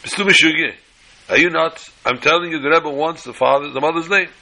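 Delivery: half-acted outburst at a confused man; mock screaming. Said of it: "he starts screaming at him".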